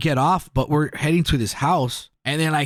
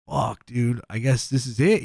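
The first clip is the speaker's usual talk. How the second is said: retold resignation; 5 semitones lower than usual. Accepting the end, retold crying.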